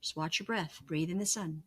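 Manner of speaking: quiet meditation cue; guided meditation. Shown as a demonstration. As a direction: lull the listener, gently instructing. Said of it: "guides the listener through meditation".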